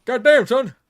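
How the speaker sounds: loud, high amazed shout. Real, not acted. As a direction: yell it out in disbelief. Exclaims at game play.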